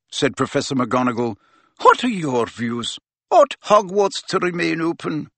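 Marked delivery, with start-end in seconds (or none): 1.8-5.3 a firm, raised teacher's voice; stern headmistress. A narrator's reading. Deputy head prompting Hagrid, firm and raised. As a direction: prompt the silent gamekeeper kindly but firmly.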